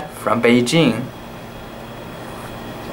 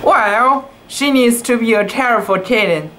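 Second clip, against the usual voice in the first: higher, fast scolding grumble; mock grumble; 6 semitones higher than usual. A narrator's reading. Tai Tai grumbling about the kitten, mild mock scold. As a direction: hurry a half-hearted scold. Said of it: "grumbled Tai Tai".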